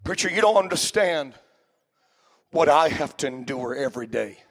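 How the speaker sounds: imitating a weary churchgoer. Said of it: "nobody's sitting there tonight saying".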